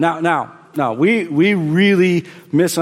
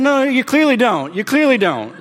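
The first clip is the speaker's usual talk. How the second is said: retold firm reply; 8 semitones higher than usual. Pastor retells his own reply.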